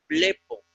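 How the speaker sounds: blepo stressed on BLE, the e accented; stress on first syllable. Shown as a demonstration. Teacher models blepo for students, stressed on the first syllable. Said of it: "acento agudo en la epsilon".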